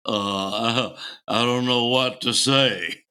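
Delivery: hesitant mock deep-voiced bandmate; deep-voiced guitarist. Tongue-tied guitarist meeting Paul, deep voice. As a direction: stammer lightly in a deep voice. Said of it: "had a real deep voice".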